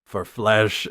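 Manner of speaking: mock grave doom over a puppet; quoting the character. Podcast host quoting the movie villain, hammed-up grave. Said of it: "he's like".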